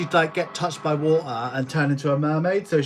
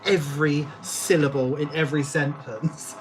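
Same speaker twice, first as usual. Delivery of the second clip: lightly imitated Australian woman; a hint of an Aussie accent. Quoting Australian woman from a meme, light Australian accent. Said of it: "Australian woman that was like".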